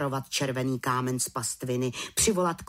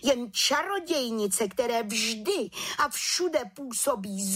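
slow, high lecturing scold; 10 semitones higher than usual. A narrator's reading. The chief witch scolds the little witch, slow and high. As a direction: drive home the rebuke. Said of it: "hubovala vrchní čarodějnice".

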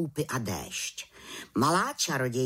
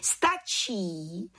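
a lightly raised enough; head witch halts the little witch, mildly raised; called out; 6 semitones higher than usual. A narrator's reading. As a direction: stop her with a sharp call. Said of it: "zvolala vrchní čarodějnice".

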